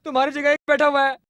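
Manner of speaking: giggling mockery; gleeful taunt. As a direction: tease through barely held laughter. Laughing taunt at headman.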